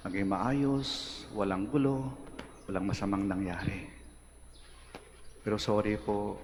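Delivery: low, soft conversational prayer; bedtime prayer. Retold or imitated. Seminarian talking to Jesus seated before him at bedtime, quiet prayer. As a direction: talk quietly and intimately to the Lord. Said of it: "At kinakausap ko siya".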